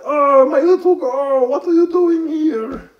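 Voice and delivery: high, slow, loud hammed-up fondness; the vampire greets his daughter in a high, gushing voice; doting grandfather count. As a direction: gush over his little girl. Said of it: "the Count's like".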